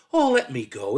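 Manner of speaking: loud, eager piping voice; piping up eagerly. A narrator's reading. Son begging father to let him go, piping up. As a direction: pipe up, raring to go. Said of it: "piped up".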